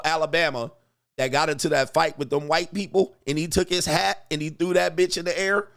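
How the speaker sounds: ordinary talk, nothing marked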